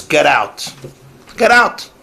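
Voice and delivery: imitating a stern father ordering his son out; angry father. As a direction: throw the son out, rising on the repeat. Father scolding teen son.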